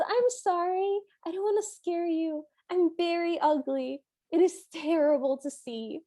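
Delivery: high, shy apologetic voice; meek woman. Retold or imitated. Woman apologizing to the bird, timid and high.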